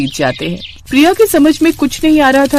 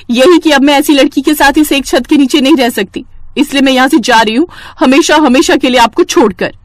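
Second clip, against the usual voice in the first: raised, defiant; angry declaration; 5 semitones higher, 4 dB louder than usual. Acted. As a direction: announce you are leaving for good. Nidhi leaving angrily.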